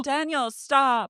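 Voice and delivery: drawn-out mock plea; mock pleading girlfriend. Co-host voicing Nia begging Danny to stop, slow mock plea.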